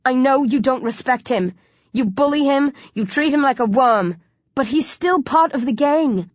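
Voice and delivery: urgent appeal rising high; insistent plea. A narrator's reading. Hero appealing to zombie gang, urgently pleading. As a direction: urge them to fight the urge.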